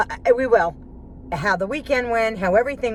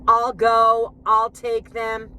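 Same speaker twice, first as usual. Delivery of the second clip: imitating husband; 3 semitones higher, 3 dB louder, much slower than usual. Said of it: "Instead of saying".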